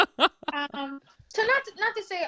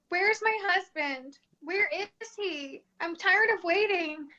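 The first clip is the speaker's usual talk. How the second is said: slow, drawn-out, slightly raised imitation of a demanding client; impatient client; 3 semitones higher, slower than usual. Palm-reading client asks where her husband is, impatient. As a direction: stretch out each question, mildly pestering.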